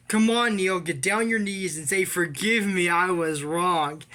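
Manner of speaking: hammed-up bully voice; mock bully order. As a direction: sneer the demand to kneel. Retold taunt, echo.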